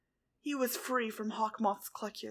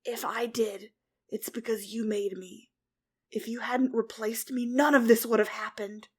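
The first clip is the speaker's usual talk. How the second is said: calm; 4 dB louder than usual. A narrator's reading. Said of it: "speaking calmly".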